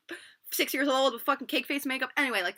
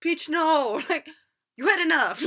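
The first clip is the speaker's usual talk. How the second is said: mock firm refusal; 7 semitones higher, 7 dB louder, slower than usual. Acts out bartenders refusing the drunk.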